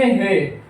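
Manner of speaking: "ഹേ" starting on an h sound; Spanish G name. Shown as a demonstration. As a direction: say "ഹേ" with h and a long e. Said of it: "ഇതിന്റെ pronunciation പറയുന്നത് തന്നെ". ("ഹേ" Spanish ഉച്ചാരണത്തിൽ)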